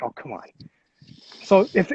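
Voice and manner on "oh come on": under the breath, much softer, lower; muttered. Retold or imitated. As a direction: mumble it, deflated. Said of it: "I'm like".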